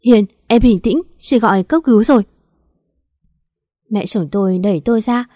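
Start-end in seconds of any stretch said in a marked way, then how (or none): 0.0-2.2 louder, urgent but steadying; calling out to calm her down; urgent reassurance. Acted. Calming Hiền during emergency. (trấn an gấp gáp, to giọng)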